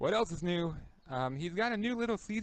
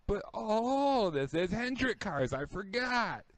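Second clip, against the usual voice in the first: usual speaking voice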